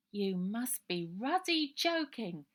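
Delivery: slow, scornful London lad; street boy Robert. Acted. Robert scoffing at Ida's plan, cockney boy voice. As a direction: scoff at the idea like a tough street kid.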